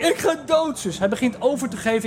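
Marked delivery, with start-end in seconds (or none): 0.0-1.0 mock dying plea. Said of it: "Hij zegt".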